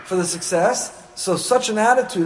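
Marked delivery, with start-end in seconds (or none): 0.1-1.0 higher, swaggering brag; boastful self-praise. Retold or imitated. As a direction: sound like someone who thinks he's the best. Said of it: "Only if you consider yourself".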